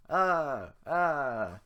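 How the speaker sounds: high, loud panicked cries; fleeing screams. Acted. Villagers flee from Shrek, screaming. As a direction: scream as you run. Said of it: "the men scramble away".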